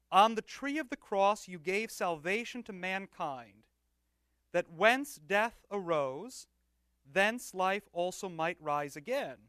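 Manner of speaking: slow, deliberate, reverent reading; slow and prayerful. Shown as a demonstration. Rereading the proper preface to the class, slow and prayerful. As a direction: read each phrase slowly and prayerfully, weighing it. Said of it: "I'll read it slowly and prayerfully".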